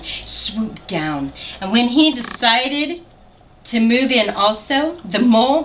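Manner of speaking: lively picture-book read-aloud; story narration. A narrator's reading. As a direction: read it to a child, animated.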